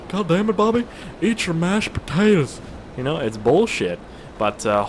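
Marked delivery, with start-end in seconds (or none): 0.1-2.6 hammed-up parent nagging a kid; mock scolding parent.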